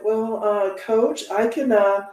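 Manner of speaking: lightly voiced apologetic phone agent; mimicking phone agent. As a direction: soothe him like a nervous phone rep. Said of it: "And she said".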